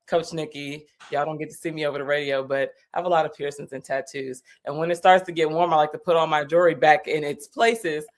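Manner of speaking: talking with a swollen tongue; thick-tongued speech. Real, not acted. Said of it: "if I'm talking a little funny, it's 'cause my tongue is swollen".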